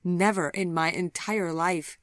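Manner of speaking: a touch of sobbing. Acted. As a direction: speak through happy tears. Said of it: "she sobbed".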